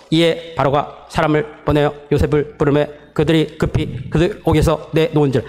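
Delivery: each verb clipped apart with pauses; staccato. Shown as a demonstration. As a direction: read the verbs in short separated bursts. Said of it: "스타카토로".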